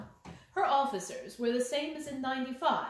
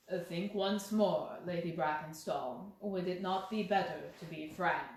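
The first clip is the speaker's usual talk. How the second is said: calm insistent Holmes; 5 semitones lower than usual. Acted. Holmes urges frankness.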